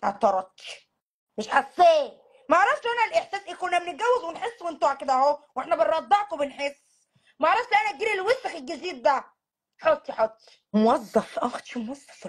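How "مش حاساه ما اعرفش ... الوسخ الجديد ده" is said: faster, exasperated mom voice; mother ranting. Acted. Mother ranting that her generation never needed to feel love. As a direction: scoff at the new generation. Same rant repeated.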